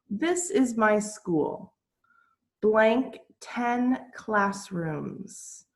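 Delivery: slow, drawn-out exercise reading; slow reading aloud. Shown as a demonstration. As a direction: read the blank slowly for class. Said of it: "teacher reading exercise aloud".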